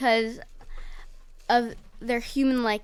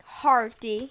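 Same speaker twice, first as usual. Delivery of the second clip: pirate voice. Shown as a demonstration. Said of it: "I sound like a pirate".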